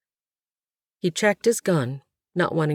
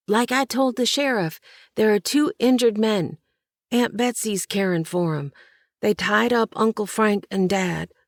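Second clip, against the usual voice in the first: put-on quivering boy's voice; 5 semitones higher than usual. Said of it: "The boy's voice quivered".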